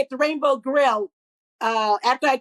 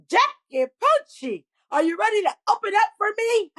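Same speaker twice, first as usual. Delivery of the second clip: caller's big announcement; 8 semitones higher than usual. Retold or imitated. Star phoning to offer her the opening spot, high rousing summons. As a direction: stretch out the name, then pitch the question high. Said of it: "I heard this voice go".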